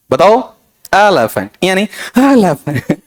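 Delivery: एलिफेंट with the first syllable punched, rest light; stress on first syllable. Shown as a demonstration. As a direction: hit the एलि of एलिफेंट. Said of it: "One stressed followed by two unstressed".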